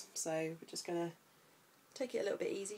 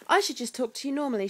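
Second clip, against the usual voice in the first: higher, louder mummy voice; 6 semitones higher, 10 dB louder, faster than usual. Real, not acted. Mum teasing herself to her baby, high baby talk. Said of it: "Why do I talk like that".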